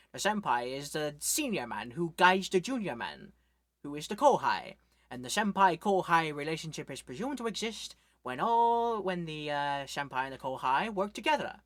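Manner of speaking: a mild Scottish accent, imitating Sean Connery; lightly done Scottish burr as Sean Connery. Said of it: "in his thick Scottish, you know, sort of accent like this".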